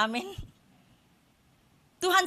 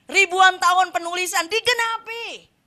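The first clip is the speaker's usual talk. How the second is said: slow, drawn out, landing high on digenapi; slow emphatic build; 4 semitones higher, 5 dB louder, slower than usual. Real, not acted. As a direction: stretch it out, then lift digenapi. (pelan dan menekan pada digenapi)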